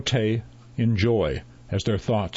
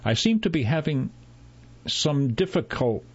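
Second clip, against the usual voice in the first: higher, strained doctor cut off mid-word; a touch of effort, raised pitch; straining to speak; 6 semitones higher than usual. A narrator's reading. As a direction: struggle mildly to get the long word out. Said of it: "he strained to finish the sentence".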